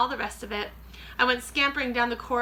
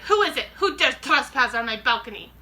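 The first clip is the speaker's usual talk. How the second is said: witch voice; 2 semitones higher, 6 dB louder than usual. Acted. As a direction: demand it like an outraged witch. Grand High Witch demands.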